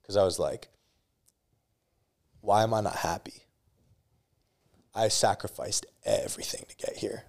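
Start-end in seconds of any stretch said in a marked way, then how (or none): 2.4-7.2 hushed broken whisper, close to tears; whispering to himself in despair. Retold or imitated. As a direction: let it barely leave your lips. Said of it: "I just broke down crying".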